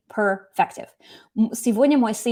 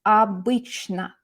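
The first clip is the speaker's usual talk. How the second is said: slow, drawn-out "Обычно"; key word demo; slower than usual. Shown as a demonstration. Teacher giving students the key word, "Обычно" said slowly. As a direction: stretch each syllable of "Обычно". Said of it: "what's our key word?".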